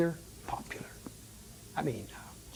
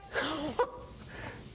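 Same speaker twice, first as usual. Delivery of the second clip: mocking laugh; 9 semitones higher, 6 dB quieter than usual. Big guy laughs at the bat.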